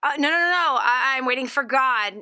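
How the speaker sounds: mock insistent refusal; acted refusal. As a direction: wave the rescuer away, a touch hammed-up. Joke's man refusing rescue.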